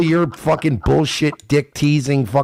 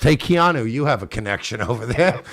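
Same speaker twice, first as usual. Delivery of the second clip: New York accent. Real, not acted. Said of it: "super thick New York ac".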